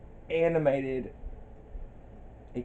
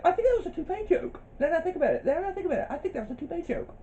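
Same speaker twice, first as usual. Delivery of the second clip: laughing; 13 semitones higher, 4 dB quieter, much faster than usual. Retold or imitated. Quoting, laughing, fast.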